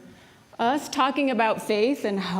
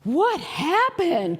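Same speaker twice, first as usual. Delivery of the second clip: higher, very slow, wide-eyed question; curious twin; 7 semitones higher, much slower than usual. Retold or imitated. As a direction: ask it like a puzzled kid brother. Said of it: "his twin brother opens the door and said".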